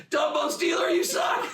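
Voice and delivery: high-pitched mock heckle; jeering heckler. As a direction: imitate jeering from the queue. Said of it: "He starts to boo Ryan".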